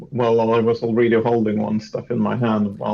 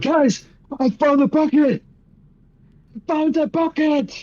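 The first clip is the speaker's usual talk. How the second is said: high, thrilled cry; excited shout. Acted. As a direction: burst in yelling with glee. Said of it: "Be like".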